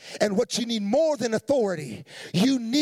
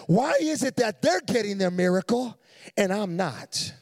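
indignant churchgoer. Retold or imitated. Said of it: "and you're like".

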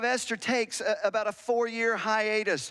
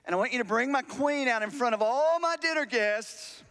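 commanding king; 4 semitones higher than usual. Acted. Acting out the king's proud command.

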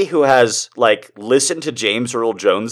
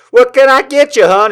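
higher, louder diner waitress; 12 semitones higher, 5 dB louder than usual. Retold or imitated. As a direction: sweet-talk like a diner waitress. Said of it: "being all like".

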